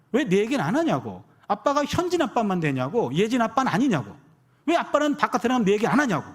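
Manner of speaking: mildly mock-indignant little daughter; child arguing. Daughter demands dad mention her name too, imitated insistent complaining. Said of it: "이렇게 따지는데".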